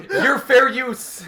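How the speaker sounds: high and slow through laughter; laughing high slow retort. Acted. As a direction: stretch it out laughing.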